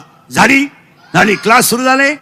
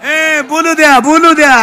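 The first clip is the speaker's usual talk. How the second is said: loud, high-pitched call over the crowd; 4 semitones higher, 4 dB louder, slower than usual. Real, not acted. Preacher calls to the crowd to allow speaking, calling out. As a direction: raise your voice sharply to cut in.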